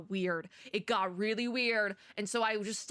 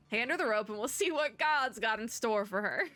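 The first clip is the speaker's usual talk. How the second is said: lightly put-on Texas cowboy accent; attempted Texas accent. Resident telling Wade to hand over the rope, attempted Texas accent. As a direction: play a local with a Texas twang. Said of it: "I can't even do that with the accent".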